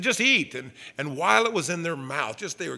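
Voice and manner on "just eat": mock exasperated god. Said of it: "And he said".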